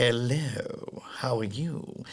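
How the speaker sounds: smooth, soft debonair greeting; Terry Thomas. Retold or imitated. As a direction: purr it like a suave old actor. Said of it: "He was a very smooth, debonair".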